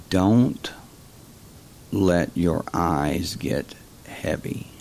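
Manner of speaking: slow, even monotone with no change in pitch. Shown as a demonstration. Hypnotist demonstrating a monotone suggestion, slow and even. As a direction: drone it out evenly and slowly. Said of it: "very monotone".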